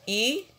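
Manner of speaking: "i-a-to" said as three separate syllables, i, a, to; "i-a-to" split syllable by syllable, teacher demo. Shown as a demonstration. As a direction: break "i-a-to" into its syllables for the class. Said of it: "você vai separar em sílabas".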